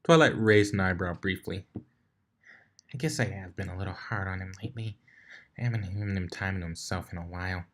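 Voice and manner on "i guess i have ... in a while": quiet admission. Acted. Twilight admits guilt.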